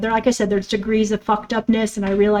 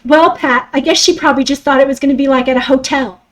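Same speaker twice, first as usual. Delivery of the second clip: dismissive stepmother. Retold or imitated. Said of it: "her being in the back of the car saying this".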